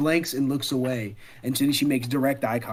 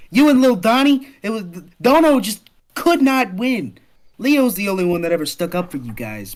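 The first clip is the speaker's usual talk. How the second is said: put-on loud, higher girl's voice easing down by the end; Sip, animated reminiscing; 4 semitones higher, 6 dB louder than usual. Girl gossiping to Mikey about his brothers, animated. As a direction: vent about old friends, emphatic then conceding.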